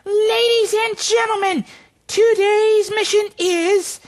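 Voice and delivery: grand announcer. Pretend. Puppet mascot grandly announces the mission.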